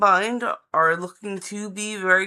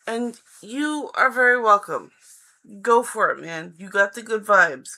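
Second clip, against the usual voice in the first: excited; 6 dB louder than usual. Real, not acted. Cheering on a viewer.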